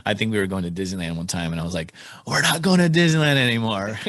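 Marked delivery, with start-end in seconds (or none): 2.3-4.0 louder and higher, a retold dad threat; mock angry yell. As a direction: bark out the punishment at the kids. Threatening his kids with punishment.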